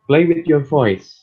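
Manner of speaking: each word drawn out slowly and pressed; slow emphatic title. Shown as a demonstration. Teacher announcing the topic to students, slow and emphatic.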